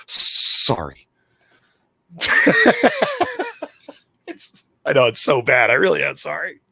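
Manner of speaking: giggling, high sorry; laughing apology. Real, not acted.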